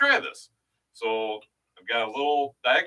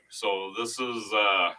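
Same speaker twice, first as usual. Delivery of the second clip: unconfident; 5 semitones lower than usual. Real, not acted. Co-host about to try an experimental drink, unconfident. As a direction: trail into it unsure, with a stalling uh. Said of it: "Don't sound too confident about it".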